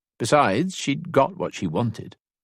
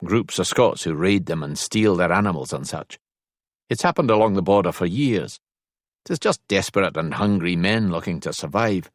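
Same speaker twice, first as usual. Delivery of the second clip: Rory-like Scots explainer, lightly done; lightly voiced Scotsman. Scottish rider explains border raiding to his companion, lightly voiced Scotsman. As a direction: explain with a hint of Scottish accent.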